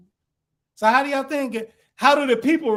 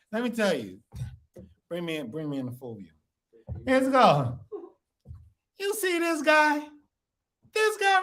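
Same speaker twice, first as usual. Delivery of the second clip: mocking scorn. Acting out mocking the letter.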